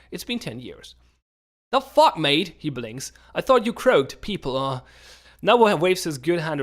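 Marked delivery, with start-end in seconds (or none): 1.7-2.5 surprised. Acted. Merchant surprised to see old acquaintance. 3.3-4.8 surprised. Acted. Merchant shocked the player lives.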